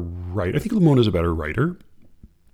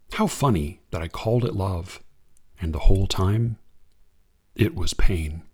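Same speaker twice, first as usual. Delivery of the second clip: unhurried reading of verse; poem reading; 3 semitones lower than usual. Acted. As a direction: read it like a poem to an audience. Reads a Limon poem.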